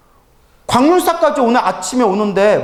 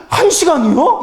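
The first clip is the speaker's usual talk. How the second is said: surprised quote; 7 semitones higher than usual. Retold or imitated. Devotee shocked at one hour.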